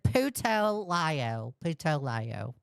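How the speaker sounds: slow Texas-accented delivery. Shown as a demonstration. Streamer repeating a viewer's phrase on offer, in Texas accent. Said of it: "say it in my Texas accent".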